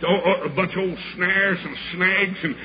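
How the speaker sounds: driving revival sermon with gasped "uh" breaks; full-force preaching. Real, not acted. Evangelist urging the church to rescue the perishing, full-force preaching. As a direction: preach it hard, punching phrase after phrase.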